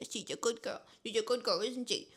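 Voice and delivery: soft praise for a dog; cooing pet-talk. Real, not acted. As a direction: coo it tenderly to your dog.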